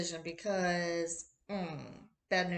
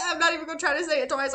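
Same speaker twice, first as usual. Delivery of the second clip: laughing; 7 semitones higher, 7 dB louder, much faster than usual. Real, not acted. Still laughing, fast.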